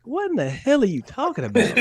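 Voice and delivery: high, laughing what-the-hell; laughing disbelief. Retold or imitated. Players laughing at the coach's odd speech. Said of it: "everybody was like".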